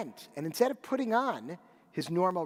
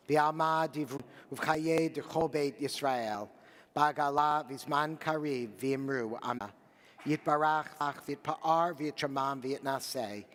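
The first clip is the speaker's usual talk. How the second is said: recited prayer. Real, not acted. Rabbi leading mourners in the Kaddish, a steady recited prayer. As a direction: lead the congregation through the Kaddish.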